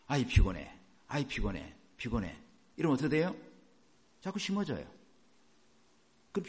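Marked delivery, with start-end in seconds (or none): 0.1-2.4 low, weary grumble; acted tiredness. Preacher demonstrating negative self-talk, tired low grumble. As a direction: let it sink, softer with each repeat. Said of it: "부정적인 거 심는 걸 봅니다".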